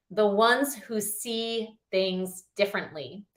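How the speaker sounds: slow, measured reading of a quote; quote recitation. Real, not acted. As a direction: recite it slowly, pausing between phrases. Reads a favourite quote aloud.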